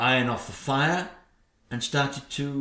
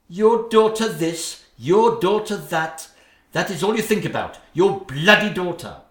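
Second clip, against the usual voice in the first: mock her husband's doting, building to fury; jealous rant; 4 semitones higher, 5 dB louder than usual. Stepmother berating the king about his daughter, angry.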